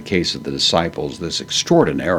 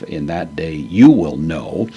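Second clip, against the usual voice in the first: slow, with "you" lifted and leaned on; stress on YOU; 3 dB louder than usual. Shown as a demonstration. Teacher shows students the emphatic pronoun, slowly stressing "you". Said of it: "the emphasis is going to be in distinction".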